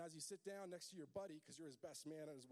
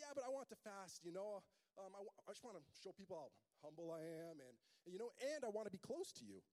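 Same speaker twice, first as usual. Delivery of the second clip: mock humble guest; 4 semitones higher, 4 dB louder than usual. Guest explains his fast.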